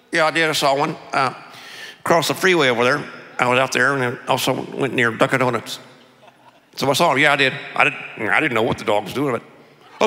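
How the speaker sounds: Texan guy with lips barely moving; closed-mouth Texas accent. Acted. Power walker answering about a lost dog, closed-mouth Texas accent. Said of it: "Here's the ubiquitous Texas accent".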